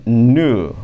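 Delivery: "nu" said like "new", no final n sound; pronunciation demo. Shown as a demonstration. Teacher contrasts "nu" with "Neil" for students. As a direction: say "nu" with a long oo. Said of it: "Olha a diferença dessa pronúncia aqui".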